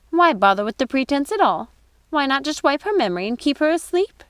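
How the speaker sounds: high, eager witchy sister; Lucinda's voice. Acted. Lucinda suggests to Gothel keeping Rapunzel asleep. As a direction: push the wicked idea gleefully. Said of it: "asked Lucinda".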